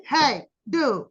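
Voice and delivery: ordinary delivery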